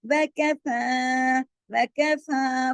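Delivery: वकफ़ा slow, फा light and held two counts; light long फा. Shown as a demonstration. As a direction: stretch thin फा in वकफ़ा. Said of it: "फा को दो हरकत खींचा". (वकफ़ा में फा बारीक और लंबा)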